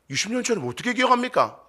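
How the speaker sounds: fast, high-pitched mock protest; exasperated retort. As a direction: protest that you can't possibly know. Acting the baffled spouse answering. (어이없어 항변하는 말투)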